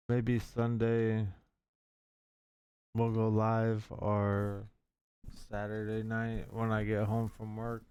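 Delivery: slow, drawn-out and sleepy; nodding off. Real, not acted. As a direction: drag the words out half asleep. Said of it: "I'm falling asleep in the chair".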